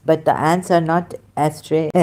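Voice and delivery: ordinary talk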